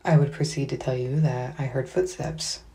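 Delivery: talking through a retainer; wearing a retainer. Real, not acted. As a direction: retainer slurring the words. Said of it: "I have my retainers in".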